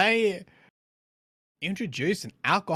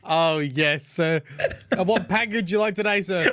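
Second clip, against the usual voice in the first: a hint of a drive-thru cashier; Taco Bell cashier. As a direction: play a chirpy fast-food worker, laughing through it. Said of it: "can I get the Baja Blast".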